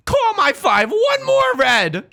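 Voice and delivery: put-on character voice. Hammed-up call in a put-on voice.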